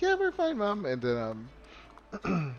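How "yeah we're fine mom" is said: put-on high childlike voice, much higher; squeaky kid brushing off mom; kids' voice. Children reassuring their mother, high kid voice. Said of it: "they're just like".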